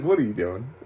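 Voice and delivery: baffled mock question, starting on a laugh; amused disbelief. Laughing, repeats mocking question.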